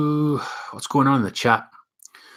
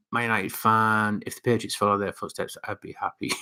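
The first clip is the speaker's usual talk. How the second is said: softer, trailing read-out; quiet reading; 7 dB quieter than usual. Real, not acted. Vlogger reading a fan's comment, quietly. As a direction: read it softly, fading toward the end.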